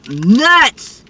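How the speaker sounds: laughing, amused exclaim. Real, not acted. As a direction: burst out laughing on the word. Laughing at her own joke.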